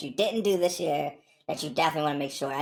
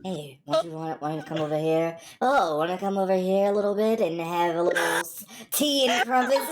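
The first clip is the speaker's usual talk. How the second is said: British accent. Shown as a demonstration. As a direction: invite them over in a put-on British accent. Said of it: "hear a British accent and says".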